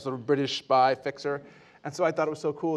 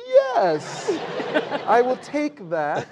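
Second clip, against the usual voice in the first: eager; 8 semitones higher, much slower than usual. Retold or imitated. Eager acceptance of billion.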